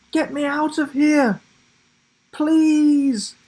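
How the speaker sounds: put-on high, pleading child voice; a trapped boy calling for help; urgent boy's plea. A narrator's reading. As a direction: beg to be let out of the cage. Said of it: "urged Will".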